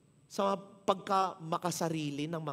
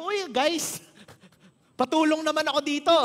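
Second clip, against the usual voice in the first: mock call for help; 9 semitones higher, 10 dB louder than usual. Imagined awkward call for help.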